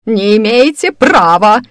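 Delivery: loud, high, drawn-out protest; angry bark. A narrator's reading. Old woman refusing the mind check, angry bark. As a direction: bark it out in outrage, stretching the words. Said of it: "рявкнула госпожа Гарф".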